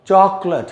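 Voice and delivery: चॉकलेट as CHOK-lut; चॉकलेट with no "late" in it; model pronunciation. Shown as a demonstration. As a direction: end चॉकलेट in a weak lut. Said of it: "लेट नहीं होता".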